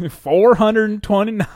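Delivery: laughing Southern twang; slow, loud Southern accent. Pretend. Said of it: "I just said that in a Southern accent".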